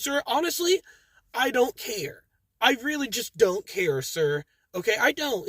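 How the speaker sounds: high, curt mock brush-off; dismissive manager. Manager telling the angry customer she doesn't care, mock dismissive.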